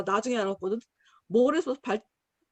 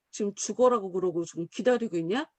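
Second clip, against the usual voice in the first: God's low rebuke; 5 semitones lower than usual. Retold or imitated. God rebuking Jonah.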